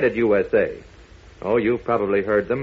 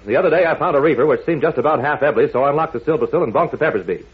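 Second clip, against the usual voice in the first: fast nonsense patter with a laugh; double talk; faster than usual. Shown as a demonstration. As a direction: rattle off gibberish like it makes sense. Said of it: "trying to talk double talk".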